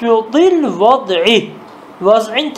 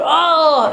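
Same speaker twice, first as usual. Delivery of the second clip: a mock pained "ah", higher in pitch; imitating a pain groan; 5 semitones higher than usual. Teacher acting out a man in pain groaning. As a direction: let out a short acted groan of pain. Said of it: "Ah diyor".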